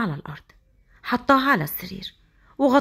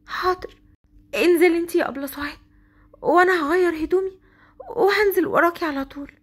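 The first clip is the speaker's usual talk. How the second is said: put-on high, light girl's voice; obedient young bride; 6 semitones higher than usual. Hasnaa replying politely to Souad from her room. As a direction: answer sweetly and dutifully.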